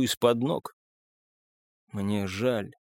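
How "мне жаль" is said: low, soft murmur of regret; hushed whisper. A narrator's reading. Narrator to Marcus, without any slyness, hushed whisper. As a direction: drop the voice low and quiet. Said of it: "прошептал я".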